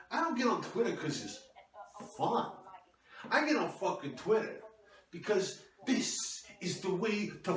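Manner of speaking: a hammed-up husband telling off his wife; mock angry husband. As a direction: play the self-important husband snapping back. Husband ranting about Twitter.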